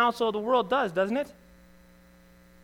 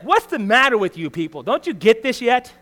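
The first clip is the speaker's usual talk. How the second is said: mock exasperated Moses; angry Moses; 4 semitones higher, 5 dB louder than usual. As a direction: scold the people in frustration. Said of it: "He's angry".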